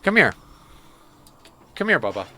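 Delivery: high cooing pet talk. Real, not acted. Owner cooing to her cat, high and loud. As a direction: coo at the cat in a sing-song.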